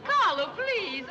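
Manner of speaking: high, drawn-out appeal; flustered plea. Acted. Card player confused by music begs musician, flustered plea.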